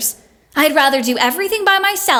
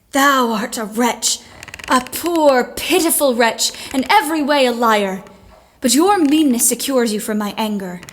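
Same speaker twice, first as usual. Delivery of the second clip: a hint of a wronged heroine's scorn, read with relish; dramatic reading. Jo reading a thrilling novel aloud, mildly theatrical indignation. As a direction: relish the melodramatic speech, mildly.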